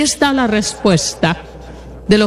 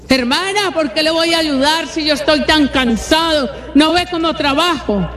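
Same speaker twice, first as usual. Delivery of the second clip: higher, indignant complaining refusal; grumbling husband; 5 semitones higher than usual. Retold or imitated. A tired husband complaining to his wife that he works too much, indignant and higher.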